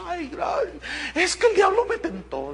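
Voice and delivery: a high, mock weepy woman's voice, not real tears; imitating her crying. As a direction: play the tearful wife thanking the pastor, lightly hammed. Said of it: "Y ella lloraba".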